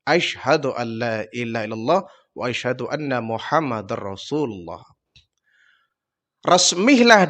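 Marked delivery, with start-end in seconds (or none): 0.0-4.8 lower, softer, quicker echo of the shahada that fades out; new convert repeating the creed. Acted. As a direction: repeat it after the Prophet, hushed and fading. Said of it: "Dihya Al-Kalbi pun mengucapkan dua kalimat syahadat".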